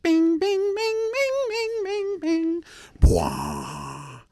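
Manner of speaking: hammed-up mocking farmer chant; mock farmer noises. Mocking old farmer at work.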